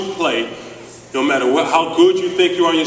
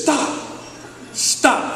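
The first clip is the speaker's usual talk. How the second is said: coach yelling stop; 11 semitones higher than usual. Retold or imitated. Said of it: "he says".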